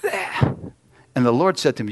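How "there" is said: loud, high triumphant yell; angry shout. Retold or imitated. Angry man shouting at his broken lawnmower. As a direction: bark it out in spite.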